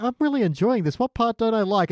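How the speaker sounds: lifted, mildly delighted self-quote; upbeat self-quote. Retold or imitated. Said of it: "I'm like".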